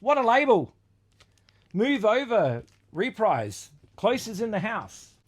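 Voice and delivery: big up a nobody label like a hype man; mock hype.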